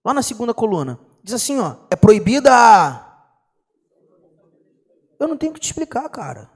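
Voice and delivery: usual speaking voice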